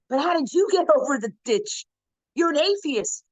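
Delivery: puzzled question. Retold or imitated. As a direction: turn the question back, genuinely puzzled. Rebbe asks atheist back.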